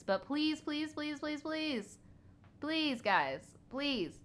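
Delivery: high, soft drawn-out begging; pleading. Real, not acted. Begging her viewers to stop resending the same story, high soft pleading. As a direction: beg the viewers softly, word after word.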